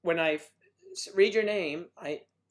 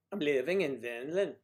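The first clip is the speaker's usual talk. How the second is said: mock Finland accent. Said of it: "they don't talk like that".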